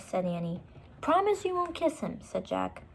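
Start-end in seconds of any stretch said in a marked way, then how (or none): 1.0-2.2 stern big brother. Acted. Jack insisting.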